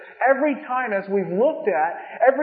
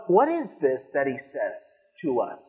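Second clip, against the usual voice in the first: puzzled disciples; 8 semitones lower than usual. Retold or imitated. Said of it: "So they're totally confused".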